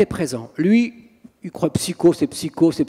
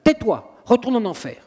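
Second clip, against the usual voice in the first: higher, firm order to a demon; retold exorcist command; 4 semitones higher than usual. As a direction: dismiss the demon curtly. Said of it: "On ne parle pas avec le démon".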